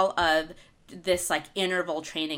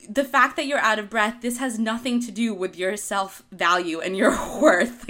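louder, encouraging pep talk to yourself; 4 dB louder than usual. Retold or imitated. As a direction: give yourself a pep talk mid-run. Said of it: "I had to give myself a pep talk".

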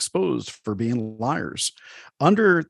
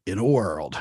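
movie trailer voice; 4 semitones lower than usual. Shown as a demonstration. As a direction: drop into the dramatic trailer guy. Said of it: "Breaking into that old, uh, movie voice guy".

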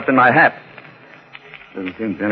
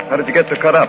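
ordinary talk

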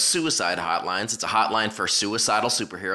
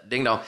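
imitated phone ring. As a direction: play the phone ringing, casually. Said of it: "that's the way the phone sounds to me".

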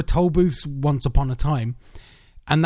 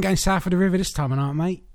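London cabbie; 2 semitones higher than usual. Acted. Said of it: "Like, cabbies going".

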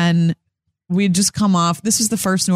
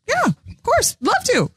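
eager mock agreement; slower than usual. Eager reply to producer, retold.

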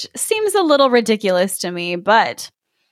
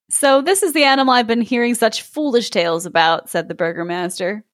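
story narration. A narrator's reading. S0 reads fairy tale aloud.

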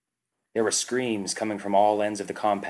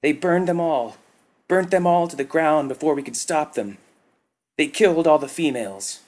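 high, loud grief-stricken cry; sobbing; 8 semitones higher, 6 dB louder than usual. A narrator's reading. Worker tells Tagath all females died, sobbing. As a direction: wail out the loss. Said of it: "the worker sobbed".

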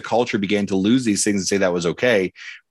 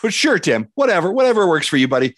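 mock gloating; 4 semitones higher than usual.

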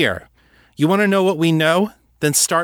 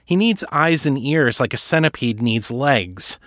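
higher-pitched, building disbelief; incredulous challenge; 5 semitones higher than usual. Acted. Kate challenging Levinson on what Artax gets, incredulous. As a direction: argue the point, pitch climbing with incredulity. Kate argues she doesn't believe him.

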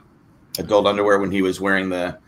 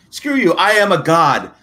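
high, loud, taunting gloat; gloating lottery winner; 5 semitones higher, 4 dB louder than usual. Pretend. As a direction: rub it in their faces like a spoiled winner. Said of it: "I'd be like".

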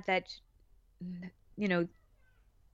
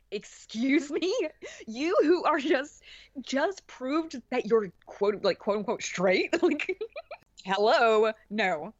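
sassy comeback; 5 semitones higher, slower than usual. Retold or imitated. Andre shooting down Joel's hypocrisy, in mock indignant sass. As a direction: play Andre calling out a hypocrite, hammed-up. Andre snapping back at Joel.

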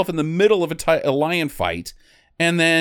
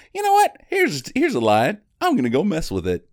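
mock trainer teasing lion; 8 semitones higher than usual. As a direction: coo at the lion like a shy pet. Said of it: "and he just goes".

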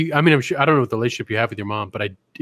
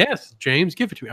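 mock mom moan; 5 semitones higher than usual. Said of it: "I don't know how your mom talks".

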